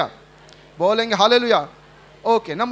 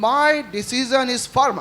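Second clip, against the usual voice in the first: slow firm declaration; much slower than usual. Acted. Preacher declaring the king's words.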